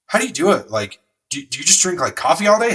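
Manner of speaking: high-pitched, mildly incredulous questioning; lightly voiced wife, puzzled and impressed; imitating amazed wife. Retells wife's amazed questions.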